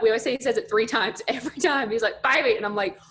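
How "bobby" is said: louder, higher imitated Mississippi dad; thick North Mississippi accent. Dad calling a third time, thick Mississippi accent. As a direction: call out insistently in a Mississippi accent. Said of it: "has a super thick accent".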